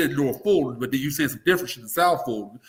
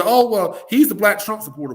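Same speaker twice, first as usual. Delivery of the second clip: mocking critics; 6 semitones higher, 6 dB louder than usual.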